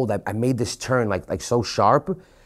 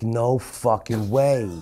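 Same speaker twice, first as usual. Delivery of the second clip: laughing disbelief; much slower than usual. Retold or imitated. Disbelief as cop turns around.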